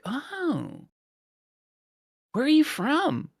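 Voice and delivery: high, bright imitation of an American; mock a chirpy American asking; American accent imitation. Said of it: "this accent".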